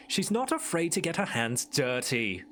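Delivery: a light British narrator. Retold or imitated. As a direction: narrate it like a TV show host. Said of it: "sounds like a British narrator".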